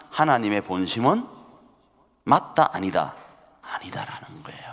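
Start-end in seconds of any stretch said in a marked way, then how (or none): 3.6-4.6 whispered answer. Acted.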